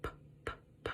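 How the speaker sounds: whispered p, p, p; unvoiced p, p, p; isolated p sound. Shown as a demonstration. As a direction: breathe out the p sound in short puffs. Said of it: "What's at that initial sound?".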